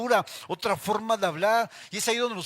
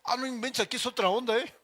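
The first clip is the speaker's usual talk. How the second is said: amazed; 2 semitones higher, 4 dB louder than usual. Retold or imitated. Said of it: "Yo cuando me subí dije".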